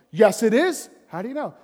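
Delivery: loud stubborn retort, pitch climbing; mock indignant shouting. Preacher arguing with God, mock indignant shout.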